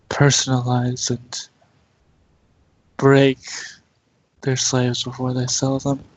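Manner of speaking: measured, even-pitched mental voice, with pauses; lightly voiced telepathic Roserade. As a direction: lightly play a reserved creature giving a warning. Game master voices Roserade telepathically.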